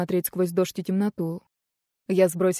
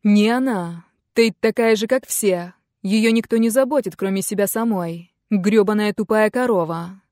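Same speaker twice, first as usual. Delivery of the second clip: put-on louder, heated teenage rant; angry; 4 dB louder than usual. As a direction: lash out at his mother, raising the voice. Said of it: "Сын сердито устремил взгляд вперёд".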